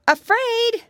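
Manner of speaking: put-on loud, high, scoffing piggy boy; exclaiming. A narrator's reading. Piggy boy scoffs at being afraid, exclaiming loudly. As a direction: dismiss the fear with a big exclamation. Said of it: "exclaimed Curly".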